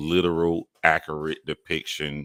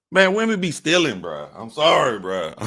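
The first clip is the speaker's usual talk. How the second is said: exasperated high rant; 12 semitones higher than usual. Real, not acted. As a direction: whine it up high in disbelief. Ranting about stolen shirt.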